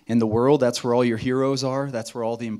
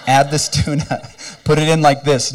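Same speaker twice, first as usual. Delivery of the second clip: laughing; 4 dB louder than usual. Retold or imitated. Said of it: "Slap Chop promise number three".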